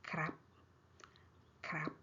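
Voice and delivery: KRAP with its R kept in; R pronounced. Shown as a demonstration. Teacher modelling the better form for learners, R pronounced. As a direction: sound the R after K in KRAP. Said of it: "krap, it's better".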